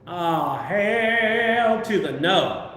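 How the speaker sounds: drawn-out, very slow hell to the no; emphatic refusal. Retold or imitated. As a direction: spell out the refusal word by word. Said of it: "And I'm like".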